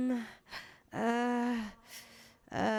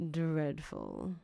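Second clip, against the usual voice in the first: blunt verdict; 5 semitones lower, 4 dB quieter than usual. Acted. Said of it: "He just called me dreadful".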